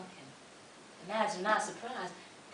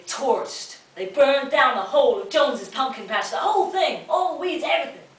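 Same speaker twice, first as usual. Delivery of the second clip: rising climax; 6 semitones higher, 8 dB louder than usual. A narrator's reading. Climax of the burning.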